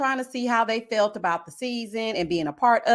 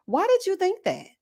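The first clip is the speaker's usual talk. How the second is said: incredulous why; 9 semitones higher than usual. Real, not acted. Questioning Tommy's remark.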